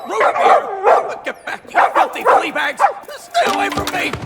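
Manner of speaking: loud, high panicked cries. Acted. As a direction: fend off the dogs in a panic. Attacked by piranha poodles.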